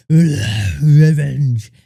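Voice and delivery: loud mock vengeful outburst; hammed-up avenger, pushed out hard; Akira. Akira learning who to blame, hammed-up vengeful. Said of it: "And Akira's like".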